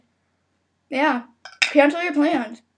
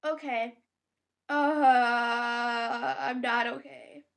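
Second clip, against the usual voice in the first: much softer, low I'm not okay; quiet distress; 3 semitones lower, 6 dB quieter, much slower than usual. Real, not acted. Admitting to viewers, quiet distress. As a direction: say it under your breath. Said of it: "Sorry I'm freaking out so much".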